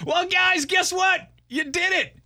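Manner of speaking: booming radio host hype; excited announcement. Real, not acted. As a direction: call it out like a big reveal. Announcing back on air to listeners.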